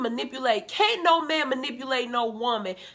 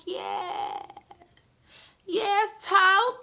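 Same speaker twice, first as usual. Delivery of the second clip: high cheer; 8 semitones higher, much slower than usual. Retold or imitated. Cheering Tokyo from her couch.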